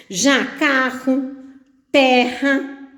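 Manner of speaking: CARRO and TERRA spaced out, the double R breathed like an H; strong R. Shown as a demonstration. Teacher gives double R examples, strong R carefully enunciated. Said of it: "têm o som forte".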